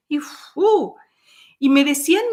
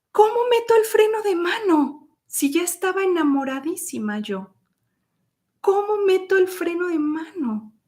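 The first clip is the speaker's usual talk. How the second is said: mock despair; 7 semitones higher than usual. Stunned, asking herself.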